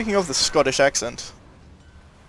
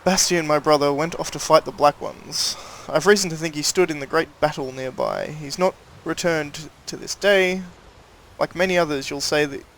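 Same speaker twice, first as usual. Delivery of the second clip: put-on a light rustic rural accent, reading a notice aloud; old-world rural accent, lightly voiced; reading a villager's plea in a mild rural accent. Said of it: "Sorry for that change of accent".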